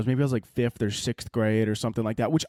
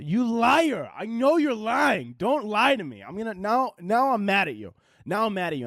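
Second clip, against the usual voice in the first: higher, hammed-up scolding of a liar; mock angry accusation; 7 semitones higher than usual. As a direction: call him out, mock furious and pitched up. Kid scolds lying officer.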